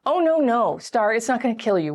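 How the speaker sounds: high, soothing protest; reassuring friend. Acted. Friends giving love and support, reassuring. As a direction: comfort a panicking friend, starting high. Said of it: "lots of love and support from other people".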